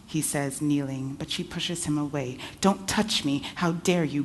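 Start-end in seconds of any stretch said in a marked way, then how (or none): 2.6-4.2 furious. Acted. Auntie furious at husband.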